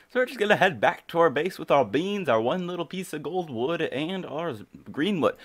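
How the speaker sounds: winded, puffing between phrases; breathless after running up stairs; out of breath. Real, not acted. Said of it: "I'm out of breath".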